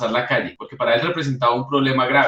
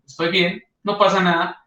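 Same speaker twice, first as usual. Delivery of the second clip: sulky "I'm fine"; 4 semitones higher than usual. Shown as a demonstration. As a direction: say nothing's wrong while clearly upset. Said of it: "su tono de voz le dicen a uno". ("estoy bien" con tono de molestia)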